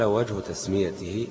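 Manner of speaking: slow, deliberate textbook heading; measured classical Arabic read-aloud; formal reading aloud. Acted. Reads heading from the book.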